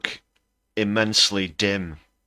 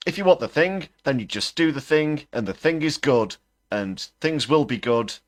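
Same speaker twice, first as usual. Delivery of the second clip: much higher and louder, parodying hollow logic; exasperated mockery; 10 semitones higher, 5 dB louder than usual. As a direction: spell out his nonsense in loud disbelief. Mocking Musk's empty speech logic.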